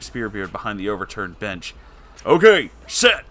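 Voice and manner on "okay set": loud quick shout. Acted. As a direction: bark it out loud. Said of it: "shouted Joey".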